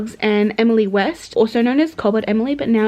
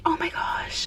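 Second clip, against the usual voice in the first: excited; 7 semitones higher, 9 dB quieter, slower than usual. Real, not acted. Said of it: "I'm so happy".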